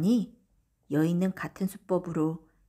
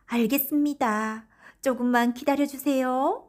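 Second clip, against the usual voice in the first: obliging wife; 7 semitones higher, 4 dB louder than usual. A narrator's reading. Wife answers sweetly.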